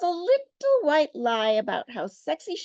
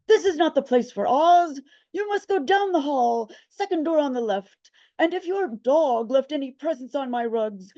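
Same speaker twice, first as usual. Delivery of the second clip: stern clerk; 3 dB louder than usual. Acted. Hotel clerk turns visitor away.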